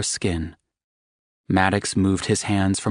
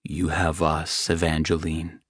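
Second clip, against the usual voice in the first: gentle; 2 semitones lower than usual. Acted. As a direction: say it tenderly to comfort her. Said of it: "Maddox said gently".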